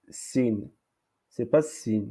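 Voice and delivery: "sin" with a light plain s; thin s and i vowel in "sin"; lettre sin. Shown as a demonstration. (« sin » avec s simple)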